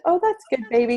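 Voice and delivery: put-on pat the kid's words away kindly; casual soothing. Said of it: "And I said".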